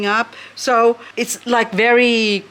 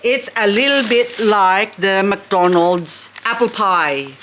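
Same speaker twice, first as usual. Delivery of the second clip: ordinary talk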